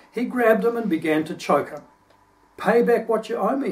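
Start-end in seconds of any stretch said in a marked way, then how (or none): 2.6-3.7 demanding. Acted. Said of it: "he demanded".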